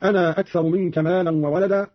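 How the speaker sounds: أنا with its final a held, "anaa"; lengthened ana. Shown as a demonstration. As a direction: draw out the end of أنا before أكثر. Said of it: "بمد أنا هكذا".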